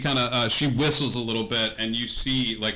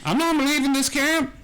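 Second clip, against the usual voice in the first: put-on much higher, creaky old woman's voice; 9 semitones higher than usual. Old woman telling the party she stays in camp, much higher. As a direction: play up a frail old woman. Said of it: "how do we find you again, ma'am?".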